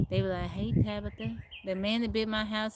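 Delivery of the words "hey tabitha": lightly imitated Tennessee country accent; thick Tennessee accent. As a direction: mimic a Tennessee country greeting. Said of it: "they have a thick accent".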